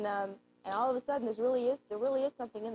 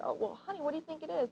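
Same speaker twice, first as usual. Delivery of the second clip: played as a joke; 7 semitones higher, faster than usual. Shown as a demonstration. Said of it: "play it more of a joke".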